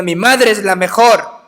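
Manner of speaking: loud, high, proud declaration; proud retort. Retold or imitated. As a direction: raise your voice and boast like a proud son. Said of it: "pero ahora con orgullo". (exclamación orgullosa, alta y fuerte)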